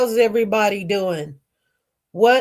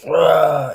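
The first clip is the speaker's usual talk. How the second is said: sputtering noise of a nose blowing out; imitated nose-blow; 4 dB louder than usual. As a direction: mimic a messy nose-blow.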